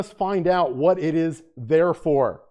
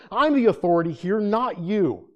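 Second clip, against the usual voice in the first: mock bossy voice, pitched up; asserting dominance; 4 semitones higher than usual. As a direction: act out someone claiming control. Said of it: "People asserting their will, asserting their dominance".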